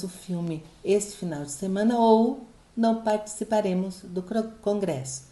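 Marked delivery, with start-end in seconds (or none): none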